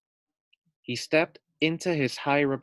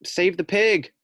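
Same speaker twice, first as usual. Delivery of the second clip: excited; 8 semitones higher, 6 dB louder than usual. Acted. Chapter title read with excitement.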